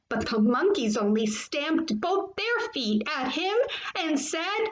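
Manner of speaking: animated picture-book storytelling; reading to children. A narrator's reading. Teacher reading a favorite story to boys and girls, animated. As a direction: read it to children with lively lifts and pauses.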